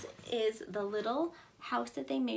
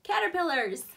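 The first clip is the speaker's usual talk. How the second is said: excited word; 6 semitones higher, 7 dB louder than usual. Acted. Teacher naming word for kids.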